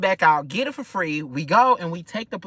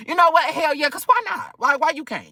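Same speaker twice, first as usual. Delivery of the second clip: excited; 12 semitones higher than usual. Retold or imitated. Mock encouragement of the friend.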